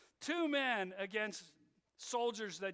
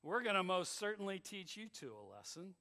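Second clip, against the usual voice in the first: mocking; 3 dB louder than usual. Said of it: "They mock 'em".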